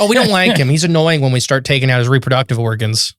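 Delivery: breezy, offhand alien voice; casual alien voice. Retold or imitated. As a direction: say it like it's nothing. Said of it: "aliens quoted again".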